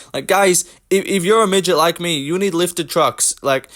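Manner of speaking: high, eager, whiny guy-talking-to-fans voice; mocking Henry Cejudo. Mocking Cejudo for viewers, high whiny impression. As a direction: play a self-important fighter pleading with his fans. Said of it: "We've got Henry Cejudo".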